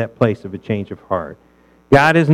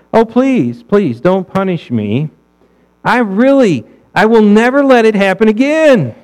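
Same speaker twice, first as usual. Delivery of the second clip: higher-pitched, whiny mock plea; begging child; 7 semitones higher than usual. Preacher acting out a child begging parents, high whiny plea. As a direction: beg in a high little kid voice.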